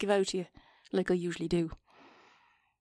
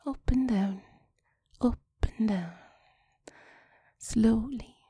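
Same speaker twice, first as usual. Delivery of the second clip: sexy whisper; 3 dB louder than usual. Pretend. Whispered phone-sex guidance.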